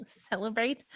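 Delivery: laughing, questioning echo with rising tune; amused surprise. Acted. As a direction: echo "Celebrate?" with a laugh and a rise at the end. Amused echo of his word.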